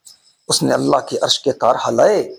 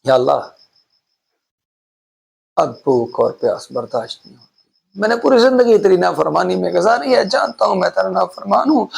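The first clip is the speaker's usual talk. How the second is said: a hint of a weeping old man begging God; pleading old man's prayer; 5 semitones higher than usual. Old beggar in the graveyard pleads with God, mildly tearful. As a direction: voice a hungry old man's tearful plea, lightly. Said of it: "قبرستان میں بیٹھا وہ رو رہا تھا".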